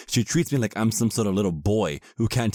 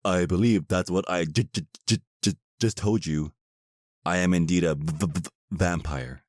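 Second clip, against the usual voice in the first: mock stutter. Mocking her stutter.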